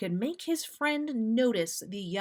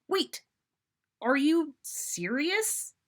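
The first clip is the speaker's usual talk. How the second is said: high, slow smirking question; teasing setup; 8 semitones higher, slower than usual. Acted. Sirius baiting Molly with a joke, smirking. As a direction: dangle the pun for her.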